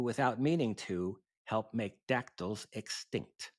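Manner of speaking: lilting dactylic verse with a pause after each line; poem recitation. Acted. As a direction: recite comic verse, leaning on the bouncing rhymes.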